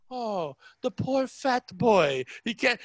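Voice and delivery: slow, exaggerated pitying coo; mock pity. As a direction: lay the sympathy on thick. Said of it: "the father said it with pride".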